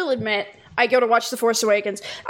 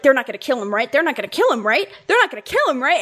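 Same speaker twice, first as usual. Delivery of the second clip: anxious pleading; 2 semitones higher, faster than usual. Retold or imitated. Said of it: "my sister is just like".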